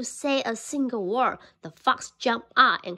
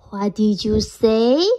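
sly fox; 6 dB louder, slower than usual. Acted. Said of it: "asked the fox".

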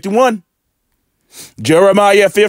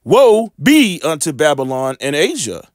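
slow, mournful scripture reading; slower than usual. Acted. Preacher reading Ezra's woes to viewers, slow and mournful. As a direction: read the woes slowly and heavily. Reads Second Ezra woes.

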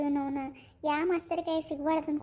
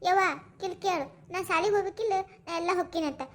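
whiny threat to cry. Acted. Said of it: "ನಾ ಅಳ್ತೀನಿ".

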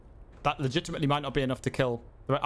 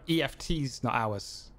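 slow repeat; slower than usual. Retold or imitated. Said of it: "I think he's saying".

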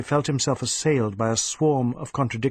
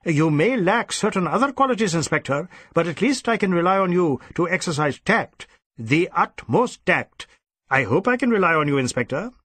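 cold threat; 5 semitones higher than usual. Acted. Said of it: "The cold threat of the last words".

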